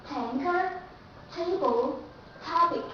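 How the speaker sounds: Tanker, table, topic with a crisp puffed T; Tanker, table, topic, T released clearly; aspirated true T. Shown as a demonstration. Teacher repeating example words for class. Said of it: "the letter T goes before the word".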